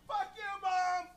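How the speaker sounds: mock teenage yell at mom; defiant yell. Rebellious teen yelling at his strict Jewish mom, loud and defiant. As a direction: shout it back at her, rebellious.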